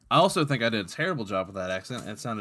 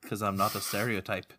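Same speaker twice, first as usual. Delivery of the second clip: lightly put-on Irish brogue; casual mock-Irish accent; Patrick's Irish accent. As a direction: say it as an amateur stage Irishman. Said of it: "Speaking of bad accents".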